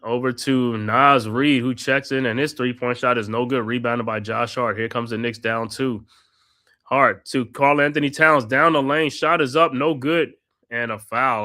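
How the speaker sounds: steady courtside play-by-play, naming each pass; play-by-play call. Acted. Fan calling the game for his co-host, play-by-play. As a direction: narrate the action like a broadcaster.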